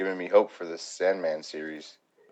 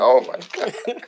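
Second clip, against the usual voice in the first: higher, louder, slow frightened gasp; mock terrified; 11 semitones higher, 8 dB louder, slower than usual. Fan voicing a frightened passenger, much higher and slow. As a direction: play the horrified passenger. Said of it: "It's like".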